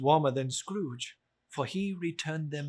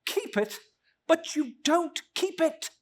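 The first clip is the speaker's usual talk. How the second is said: higher, louder indignant nephew; nephew protesting; 13 semitones higher, 5 dB louder than usual. Acted. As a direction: push back at the uncle.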